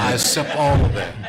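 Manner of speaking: tearful, forceful acceptance; real tearful. Real, not acted. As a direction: push it out through tears. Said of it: "a little crying, bald-headed guy".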